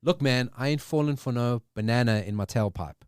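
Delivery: put-on a light Eddie Murphy accent on the movie line; quoting Eddie Murphy in his Beverly Hills Cop accent. A host quoting the movie line in a light Eddie Murphy accent. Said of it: "I went into that accent".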